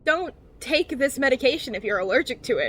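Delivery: lightly mocked medication warning; a hint of TV-commercial announcer; drug-ad announcer. Repeating a commercial's allergy warning, lightly mocked announcer voice. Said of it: "my favorite part of those commercials".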